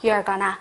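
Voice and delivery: you're gonna said slowly, carefully; slow model English. Shown as a demonstration. Teacher modelling for students, slow clear English. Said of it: "다시 한번".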